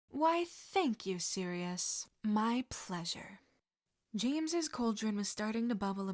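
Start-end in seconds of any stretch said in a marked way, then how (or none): 0.1-3.4 mock-gracious. James accepting praise from Sirius, slow mock grandeur. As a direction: ham up the gratitude.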